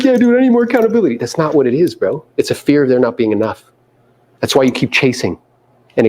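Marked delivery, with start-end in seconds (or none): 0.0-1.2 high, quick mock agreement; playful put-on eagerness; teasing imitation. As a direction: rattle it off high, mimicking him. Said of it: "he's like".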